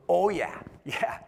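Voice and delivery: amused, bursting out with a laugh; chuckling, high and loud; laughing yeah. Retold or imitated. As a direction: laugh at how obvious the nerves are. Comic laughs at nervous newcomer.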